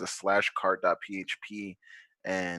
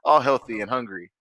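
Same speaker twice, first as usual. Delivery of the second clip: mustache twirling villain; 3 semitones higher, 6 dB louder than usual. Retold or imitated. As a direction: gloat like a cartoon villain. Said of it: "They're probably like".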